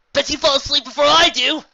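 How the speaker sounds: high, loud taunting challenge. A narrator's reading. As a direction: fire the bet out loud. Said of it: "Rainbow busted".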